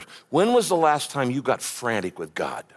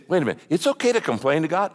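doubting questioner; much faster than usual. Acted. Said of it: "You say".

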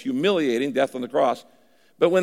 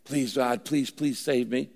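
begging; 2 semitones lower, 5 dB quieter, slower than usual. Acted. Preacher acting out someone who begs God to save them, begging. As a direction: plead quietly, drawing out the please. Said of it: "You don't have to beg".

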